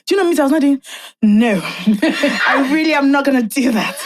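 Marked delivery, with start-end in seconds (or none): 1.2-4.0 slow retort broken by laughs; laughing retort. Retold or imitated. Bride answers her planner, slow and laughing. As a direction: laugh it out, dragging the words.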